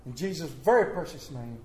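earnest prayer, phrase by phrase; pulpit prayer. Acted. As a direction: pastor praying over the congregation, earnest. Leads the congregation in prayer.

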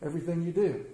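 a quiet grateful table prayer; simple prayer. Shown as a demonstration. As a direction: pray it gently to God. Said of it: "How easy is it to pray".

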